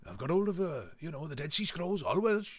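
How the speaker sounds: lightly voiced Welsh theorist; casual mock Welsh lilt; a hint of Welsh amateur scholar; imitated Welsh accent. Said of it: "he does it in a Welsh accent".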